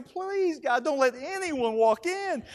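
high, drawn-out "please"; mock-anxious plea to God; pleading prayer. Anxious silent plea, acted out.

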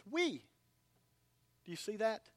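usual speaking voice

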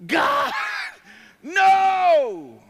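high, loud pleading wail; mock cry of alarm. Believer pleading with God, loud high cry. Crying out at chainsaw.

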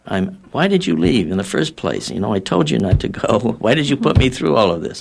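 half-acted scolding of a son who left for war; retold parent mildly scolding her returned son; mock angry reproach. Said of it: "back into the stage of anger".

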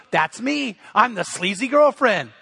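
emphatic playful declaration in the wife's words; mock-proud statement, not a question; retold amused acceptance. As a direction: imitate her gleefully owning the title. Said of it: "she just starts laughing".

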